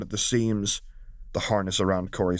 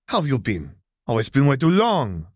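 higher, louder gushing reunion; exuberant; 6 semitones higher, 5 dB louder than usual. Acted. Valmora hugging Zariah, gushing with joy. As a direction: gush over an old friend. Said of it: "Valmora greeted exuberantly".

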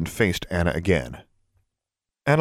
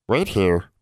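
sighing elf. Acted. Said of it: "the elf sighed".

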